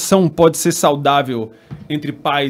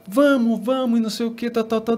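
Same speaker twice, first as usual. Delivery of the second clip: a hint of eager little girl; 6 semitones higher than usual. Daughter agrees eagerly.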